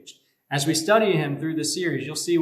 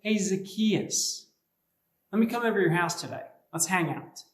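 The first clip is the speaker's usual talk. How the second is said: personal invitation; 2 semitones higher than usual. Retold or imitated. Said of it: "He says".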